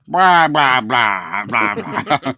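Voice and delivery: loud run of blah-blahs, tailing down; imitated babbling yell; mock blaring "blah". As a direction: blurt out blah after blah, loudly. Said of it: "side of the road and goes".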